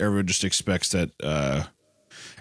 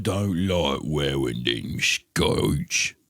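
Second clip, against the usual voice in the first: very slow, slurred Scottish put-on; garbled mock Scottish accent; 3 semitones lower, much slower than usual. Answering the skirt jibe as a Scot, garbled accent. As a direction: drag it out into barely intelligible Scottish. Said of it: "I didn't even understand what you said".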